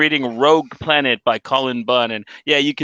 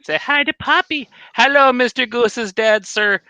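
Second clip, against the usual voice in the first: higher-pitched, chirpy hello; playful greeting; 10 semitones higher than usual. Real, not acted. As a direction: greet the whole family in a raised, playful voice. Greeting a co-host's family on stream.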